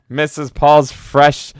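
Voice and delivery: slow, high mock announcer; lightly voiced critic. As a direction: drag out the product name. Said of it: "now you're just swapping critic".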